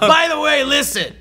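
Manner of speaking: high, loud villain pitch; hammy robot villain. Retold or imitated. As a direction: play the scheming villain.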